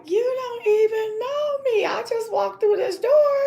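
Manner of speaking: high incredulous aside with a laugh; baffled disbelief. Retold or imitated. Narrator stunned by the girl's friendliness, high and incredulous. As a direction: think it in amazed disbelief. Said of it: "And I'm looking like".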